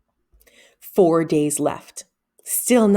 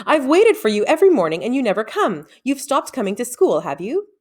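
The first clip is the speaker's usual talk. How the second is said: cross; 6 semitones higher, 3 dB louder than usual. A narrator's reading. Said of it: "she said crossly".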